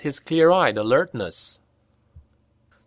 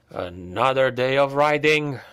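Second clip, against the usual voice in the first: moaning. Acted. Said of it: "moaned Hals".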